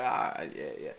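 low, scoffing mock laugh from the king; king laughing off a shepherd boy's offer, mock scoff. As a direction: scoff at the boy like a dismissive king. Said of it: "the king looked at him and laughed".

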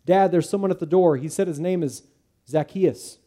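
excited daughter. Acted. Daughter telling her dad someone's at the door, eager and high. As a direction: call out to Dad like an eager girl.

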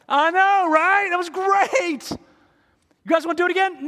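put-on very high, loud little-boy voice; fake-brave kid. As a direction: play the kid acting brave. Kid boasting, pretending he was brave.

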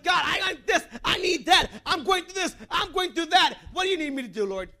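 hammed-up, demanding me-first prayer, half shouted; mock selfish prayer. Pastor mocks how people pray today, in a half-shouted mock prayer. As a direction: mimic a greedy prayer list, mildly loud. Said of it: "Today we open up with prayer with".

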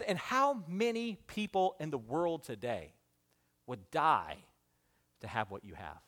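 low, soft and fading, the voice of God; God's quiet question. Acted. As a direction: ask it gently and let it sink. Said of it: "He, he said".

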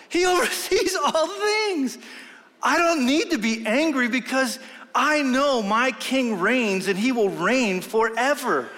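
retold answer. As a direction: lift the voice, savor each word about the king. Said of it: "I said".

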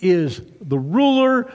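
sneering, slow scornful giant; mocking Goliath. Goliath taunting the Israelites, slow sneering mock. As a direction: scoff at the idea that he is the ruler. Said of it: "and he goes".

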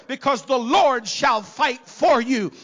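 ordinary talk

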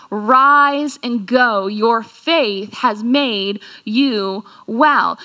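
slow, gentle words of grace; a blessing spoken slowly; slow tender blessing. Acted. Jesus's words to leper.

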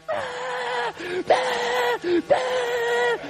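ahh like a whole stadium screaming; crowd roar imitation.

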